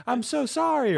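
high mock apology; dad apologising to Dave, high and pleading; imitating an apologetic dad. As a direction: squeak it out like a sorry old man. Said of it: "if it's a good".

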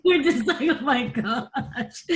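laughing while retelling a tender moment. Real, not acted. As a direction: laugh through the words as you remember. Laughing through the memory.

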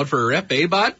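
put-on Canadian hoser accent. Showing co-hosts his Canadian accent, hammed-up Canadian. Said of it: "good Canadian accent right there".

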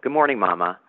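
lightly voiced young girl, barely changed; a hint of a twelve-year-old greeting. Emily greets her mother with a faint twelve-year-old voice. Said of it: "in the voice of a twelve-year-old".

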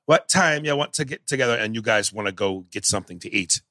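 bad Jamaican accent that falls off; Denzel. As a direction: imitate an actor losing his Jamaican accent midway. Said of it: "here was Denzel".

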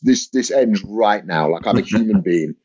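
low, blunt, half-joking menace; mock threat. Comedian threatening a heckler, low mock menace. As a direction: warn the heckler off, deadpan low.

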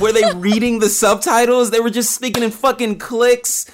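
high, laughing incredulity; laughing disbelief. Real, not acted.

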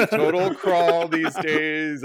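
laughing through the words, slow. Real, not acted. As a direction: giggle it out, drawn out. Laughing about broken ankle.

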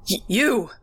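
stammer, then a rising cry; frightened stammer. A narrator's reading. Grandpa seeing the dead girl, terrified stammer. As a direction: stumble on the first sound in terror. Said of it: "he stammered".

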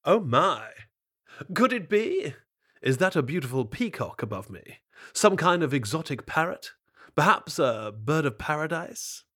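sly fox, gushing flattery; flattering fox. Acted. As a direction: lay the praise on thick. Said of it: "leaned up against the tree and shouted".

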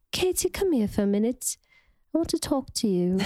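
lightly imitated accented woman summoning someone; Lisa. Cast member imitating castmate summoning Katie, light put-on accent. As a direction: badly mimic her accent, pausing between phrases. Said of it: "I'm trying to think what she says".

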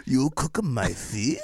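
put-on slow, accented, outraged sushi chef; hammed-up Japanese accent; mock Japanese chef. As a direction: drag out an appalled chef's question in a Japanese accent. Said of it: "Japanese fucking sushi chef is crying".

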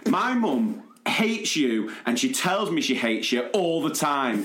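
put-on slow, deliberate kid's comeback; lightly voiced sulky child; child's retort. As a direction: spell it out like a cheeky child. Child repeats his retort.

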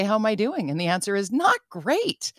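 mock awkward honesty; acted small-talk dread. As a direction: imitate an awkward exchange, pitching up on the confession.

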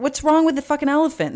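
demanding why it's a problem; exasperated yell. Real, not acted. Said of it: "You're, like, yelling at me".

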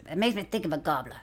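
laughing mock Southern. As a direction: crack up mid-impression. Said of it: "You're making him sound way more".

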